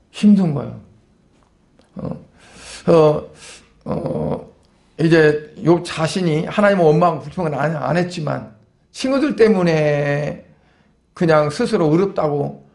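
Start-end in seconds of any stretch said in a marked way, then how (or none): none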